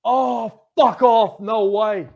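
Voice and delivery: loud, high, slow yell of disbelief; excited shout. Real, not acted. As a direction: cry out at the screen in amazement. Reacting to a near goal.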